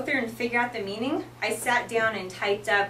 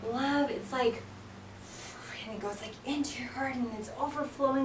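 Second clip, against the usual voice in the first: expressive, softer; 3 semitones higher, 7 dB quieter than usual. Shown as a demonstration. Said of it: "But if I'm like".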